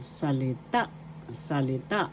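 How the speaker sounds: "Salita" with the accent on the last syllable, TA; stress on final syllable. Shown as a demonstration. Teacher showing Tagalog learners the word, stress on "Salita"'s final TA. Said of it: "where the accent is".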